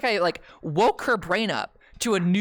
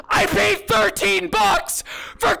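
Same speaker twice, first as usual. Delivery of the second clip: high, loud exasperated shout; outraged yell; 12 semitones higher, 6 dB louder than usual. Real, not acted. Comedian yelling to the crowd about thirteen-dollar water, loud and high. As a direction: yell it in disbelief at the price.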